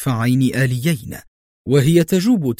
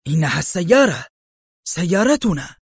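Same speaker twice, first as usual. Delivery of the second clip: exclaiming; 5 semitones higher than usual. A narrator's reading. Mercenary spotting their own car, mild exclamation. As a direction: exclaim it, pitch climbing on the last word. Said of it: "فهتف".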